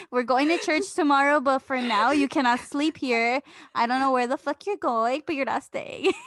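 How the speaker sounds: loud, bossy pretend eviction; mock kicking him out. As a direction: order him out the door, half joking. Imagined kicking out the boyfriend.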